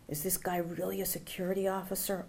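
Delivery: hushed, wondering to herself; half-whispered private thought; inner wondering. A narrator's reading. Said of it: "I wondered".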